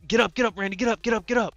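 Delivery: holding the trailer and yelling at Randy to get up; urgent shouting. Retold or imitated. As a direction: yell at him to move, now. Urging fallen man to rise.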